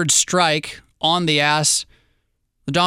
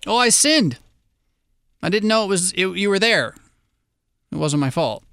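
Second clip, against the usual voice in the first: half confession; 4 semitones higher than usual. Retold or imitated. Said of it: "a half confession".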